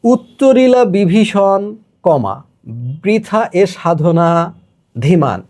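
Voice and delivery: slow recital with pauses; slow verse reading. Shown as a demonstration. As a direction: read it slowly, pausing at the marks. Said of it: "এইখান থেকে একটু খেয়াল করি". (থেমে থেমে ধীরে আবৃত্তি)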